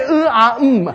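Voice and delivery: high-pitched mock hesitation; mocking filler noises. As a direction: imitate stalling with empty noises. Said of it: "Don't just say".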